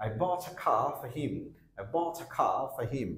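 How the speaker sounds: "for him" run together as /fəhim/; weak form in a sentence. Shown as a demonstration. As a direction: reduce "for" to a short uh. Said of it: "উইক সাউন্ডে sound আসছে". ("for him" উইক সাউন্ডে জুড়ে)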